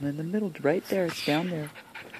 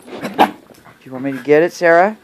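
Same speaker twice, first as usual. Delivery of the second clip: louder call to the dog, rising on Sarah; 7 dB louder than usual. Real, not acted. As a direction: call her name across the room.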